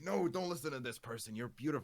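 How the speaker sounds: high-pitched imitation of a protective fan; lightly mock an over-eager reassurer; gushing fan. Imitating fans defending the streamer from an insult, gushing reassurance.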